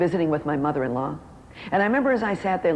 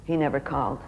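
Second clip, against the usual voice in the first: crestfallen; 4 semitones lower than usual. Retold or imitated. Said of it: "her face dropped".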